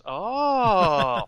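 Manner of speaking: swayed hero. Acted. Parody hero leans back, swayed.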